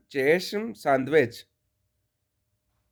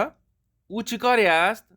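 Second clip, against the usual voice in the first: slow, deliberate language-drill sentences; measured textbook reading, pausing between sentences; pronunciation model reading. Shown as a demonstration. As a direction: read each sentence slowly for learners to copy. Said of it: "سیدھے line سے پڑھوں گا".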